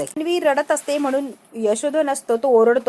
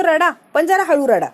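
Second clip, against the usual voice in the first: raised voice; 4 semitones higher, 4 dB louder than usual. Acted. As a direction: voice raised, a bit louder and higher. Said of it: "आणि आता आवाज वाढवलेला असतो".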